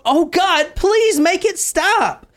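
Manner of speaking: high, slow, pleading wail; mock hysterical crying. Katie pleading to God mid-attack, high and tearful. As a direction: beg it to stop in a high, slow voice. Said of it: "She's crying hysterically".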